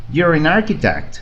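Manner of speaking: "an architect" joined as "narchitect"; teacher modelling for repetition; model phrase. Shown as a demonstration. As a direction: clear model sentence, linked. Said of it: "Repeat after me".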